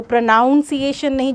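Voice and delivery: प्रोनाउंसिएशन with the "noun" sound, prə-NAUN-sieʃən; wrong pronunciation. Shown as a demonstration. Teacher warning students off the mispronunciation, the wrong way. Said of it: "जो बच्चा प्रोनाउंसिएशन बोलता होगा".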